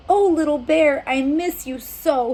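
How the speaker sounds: a touch of tearful longing; mild weeping. Acted. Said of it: "he wept".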